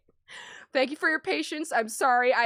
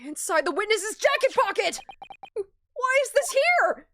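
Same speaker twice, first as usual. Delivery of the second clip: high, raised dramatic voice; astonished discovery; 9 semitones higher, 4 dB louder than usual. Acted. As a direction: announce a shocking find, stretching the question. Courtroom discovery announced.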